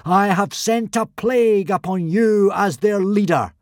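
loud, high solemn pronouncement; solemn boom. Acted. Fake god solemnly booming at the consul. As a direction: boom it gravely. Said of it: "boomed Hiccup solemnly".

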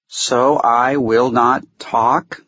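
slow, distinct, high little voice; high, thin creature. A narrator's reading. Fuzzy asks the court, in a high thin voice. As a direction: pick out each word in a thin, high voice. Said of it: "asked in a high, thin, but distinct voice".

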